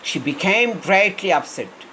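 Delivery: each word stretched out very slowly; slow reading aloud. Shown as a demonstration. Teacher rereads the sentence for students, very slowly. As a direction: read it out word by word. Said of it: "slow dictation reading".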